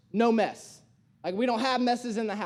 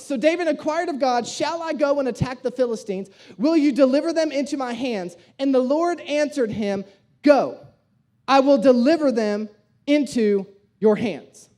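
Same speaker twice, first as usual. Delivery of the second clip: loud, emphatic Bible reading; preached scripture reading; 5 dB louder than usual. Acted. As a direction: proclaim the verse to a congregation. Preacher reads scripture aloud.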